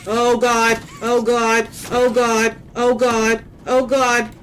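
frantic repeated oh God; terrified gibbering. Real, not acted. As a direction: gibber in panic under breath. Repeated panic chant.

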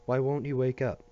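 put-on high anxious child's question; worried little boy. A narrator's reading. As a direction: ask it like a scared little boy.

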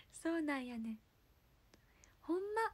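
second tentative go at Kansai intonation; amateur Kansai accent; awkward Kansai dialect. Shown as a demonstration. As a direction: try the Kansai lilt, unsure of it. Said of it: "今ちょっと変じゃない？".

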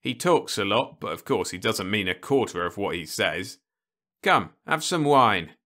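smooth it over with wine; jovial uncle. Acted. The uncle soothes Ludovic and offers wine.

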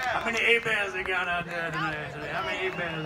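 A-Bears, the French way with silent H and T; Cajun pronunciation. Shown as a demonstration. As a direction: say A-Bears as AY-bairs. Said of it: "where they say Hebert".

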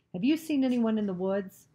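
lightly barked interrogation; barked question. A narrator's reading. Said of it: "The soldier barked the question at her".

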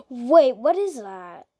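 surprised gasp. Real, not acted. Gasps at surprise item.

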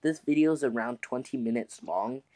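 tired and out of breath. Real, not acted. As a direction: speak winded after a long session. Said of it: "I am so out of breath".

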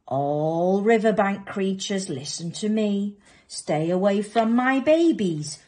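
loud, forceful proclamation; called-out warning. Acted. Mother crocodile warns riverbank creatures, loud and commanding. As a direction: call across the river as a threat. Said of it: "called out".

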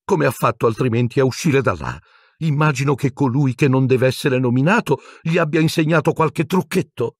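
high, piercing Pettigrew squeal; a frightened little man shrieking his case. A narrator's reading. Pettigrew keeps pleading. (strillo acuto e penetrante di Pettigrew)

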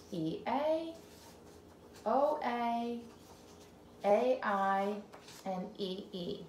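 naming the letters slowly one by one; letter names. Shown as a demonstration. Teacher naming letters to the child slowly. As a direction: spell out each letter. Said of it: "make flowers with our vowel teams".

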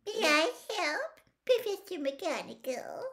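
very high, sugary little voice; high, sickly-sweet politeness; poisonously sweet. A narrator's reading. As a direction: offer help with syrupy false sweetness. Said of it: "her most poisonously sweet voice".

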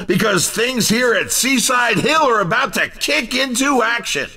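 upbeat race announcer hyping the crowd; bright announcer call, sell every venue. Acted. Race game announcer lines.

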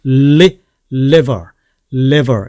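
"liver" opening on a firm tongue-tip L; careful demo of "liver" with a held L; clear L. Shown as a demonstration. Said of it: "이렇게 된다는 얘기죠".

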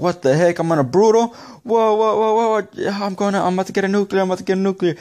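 high, loud, wound-up reenactment; replaying the thrill, pitch way up; excited disbelief. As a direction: retell it in a high, thrilled rush of amazement. Retelling his nuclear streak reaction.

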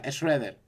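Shredder as "esreder", soft and falling; his own pronunciation. Shown as a demonstration. Streamer defends his Nordic-style pronunciation of Shredder. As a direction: drop the D in Shredder and let it fall. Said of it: "lo pronuncio de esa manera".

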